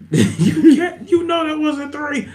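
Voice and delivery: a giggly complaint; laughing mock protest.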